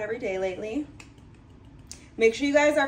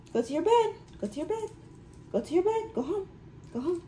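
much higher sing-song coaxing, rising at the ends; sing-song dog coaxing; 8 semitones higher, faster than usual. Real, not acted. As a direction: coax the puppy onto his bed in a lilting voice.

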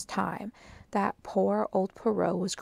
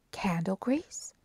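puzzled echo; slower than usual. A narrator's reading. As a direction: repeat it as if baffled. Maid puzzled by the question.

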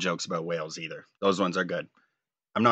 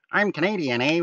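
high-pitched South Park Canadian impression; mock a self-important Canadian, pitched up; self-important cartoon Canadian; 9 semitones higher than usual. Imitating a South Park joke about Canadians, self-important and high-pitched. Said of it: "make themselves so self-important".

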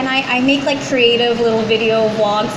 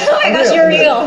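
mock starstruck; 3 semitones higher, 4 dB louder than usual. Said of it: "mock starstruck".

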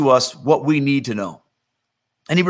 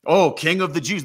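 lightly acted jeering at a fallen king; mocking. Onlookers jeer at Jesus on the cross, mocking. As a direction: scoff with a dismissive puff. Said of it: "They mocked him".

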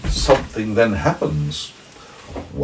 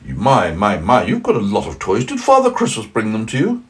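snowman voice; 3 dB louder than usual. Acted.

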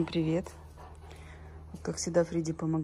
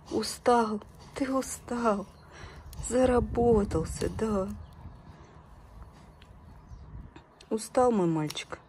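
squeaky praising a dog. Real, not acted. Praising the dog's good work.

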